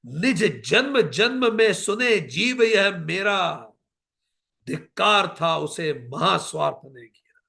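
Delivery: slow, impassioned declamation; stately Hindi verse reading; poetic recitation. Acted. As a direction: declaim each line with weight. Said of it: "वो कहती है".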